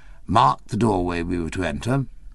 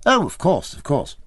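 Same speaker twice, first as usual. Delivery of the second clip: quick, higher eager assent; eager agreement; 6 semitones higher than usual. A narrator's reading. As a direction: hurry to sound knowledgeable. Eager to seem informed.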